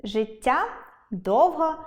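ordinary delivery

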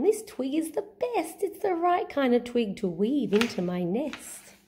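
a hint of a proud swan. Swan speaks.

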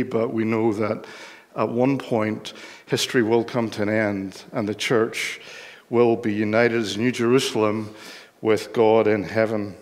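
ordinary talk

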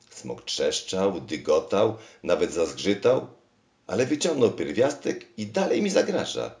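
high, loud call; calling from the door. Acted. King calls to the machine from the doorway, high and loud. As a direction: call out in alarm from the threshold. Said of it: "wołał od progu".

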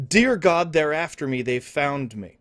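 panicked. Retold or imitated. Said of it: "I can hear Frank screaming".

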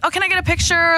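high, put-on gushing fan voice; gushing fangirl. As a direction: play a starstruck fan begging for a photo. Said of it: "No one wants to be like".

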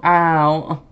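sharp ow after stubbing toe; real yelp of pain. Real, not acted. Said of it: "I just stubbed my toe".

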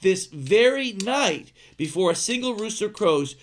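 a hint of Jesus's solemn warning; solemn declaration. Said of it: "Jesus said, "Solemnly".

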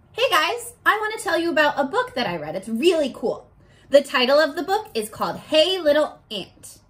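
bright, eager student voice presenting a book; excited kid telling a friend about a book; upbeat demo of a book retell; model retell. Shown as a demonstration. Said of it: "here's what a retell should sound like".

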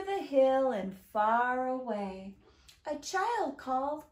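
slow, lilting storytime reading; singsong, drawn-out verse; children's rhyme reading. A narrator's reading. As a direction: read a counting rhyme to little ones. Reads a counting rhyme aloud.

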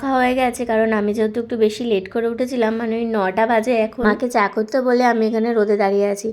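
talking with a toothbrush in mouth; while brushing teeth. Real, not acted. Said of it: "brush করতে করতে". (দাঁত brush করতে করতে কথা)

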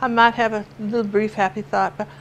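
granddaughter's Southern drawl, imitated. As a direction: reason like a mopey toddler with a Southern twang. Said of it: "she's in this drawl".

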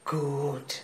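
low, soft approval; quiet approval. Acted. Mother hearing daughter went to church, quietly approving. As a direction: take it in softly.

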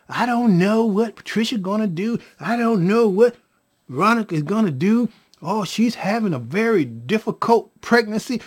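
mock anxious rant, piling up the troubles; fretful caller. Beth phones about a difficult pregnancy, fretful. Retelling Beth's worried phone call.

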